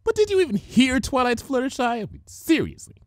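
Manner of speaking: gentle shy pegasus pony talking; Fluttershy voice. A narrator's reading.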